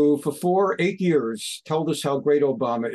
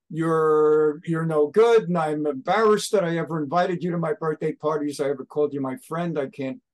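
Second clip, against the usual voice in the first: retold tirade, hit hard on the key words; hammed-up disowning of a friend; mock angry rant. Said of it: "He just did a rant".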